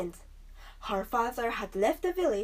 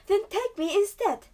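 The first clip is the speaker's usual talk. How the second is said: higher, louder demand; 11 semitones higher, 6 dB louder than usual. A narrator's reading. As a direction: insist firmly on taking his place. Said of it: "Belle demanded".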